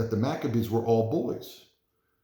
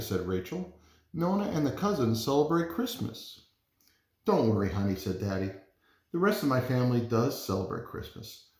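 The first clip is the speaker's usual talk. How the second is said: lively picture-book read-aloud; gentle storytime voice, figures lightly voiced; reading to children. Reads picture book to class.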